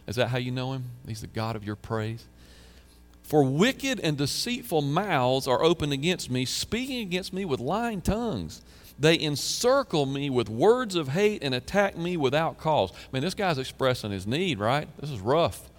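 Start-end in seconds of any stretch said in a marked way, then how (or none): 3.2-12.9 scripture reading. Acted. Reading psalm with feeling.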